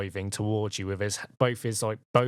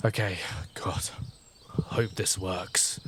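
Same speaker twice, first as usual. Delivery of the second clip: whispered, slowing plea; hushed, drawn-out hope under the breath; nervous whisper; 3 semitones lower, slower than usual. Acted. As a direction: whisper it like a desperate little prayer. Character's anxious prayer before spell.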